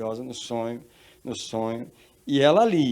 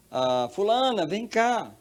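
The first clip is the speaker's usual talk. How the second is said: high, raised calling voice; 9 semitones higher, 4 dB louder, much slower than usual. Acted. A father's voice calling his daughter in her dream, high calling. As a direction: call someone over from afar, pitched up. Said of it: "ela ouviu uma voz chamando ela".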